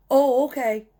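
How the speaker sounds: high, dopey, drawn-out oh okay; mocking dumb reply. Lazy driver answers the yard guy, mock-clueless. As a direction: play him clueless and unbothered.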